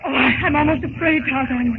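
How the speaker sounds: a scared whimpering admission; frightened. Acted. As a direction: voice catching with nerves. Jane nearing frightening ape ceremony.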